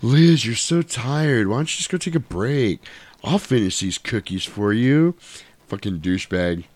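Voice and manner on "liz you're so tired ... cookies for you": smarmy neighbour. Retold or imitated. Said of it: "he's like".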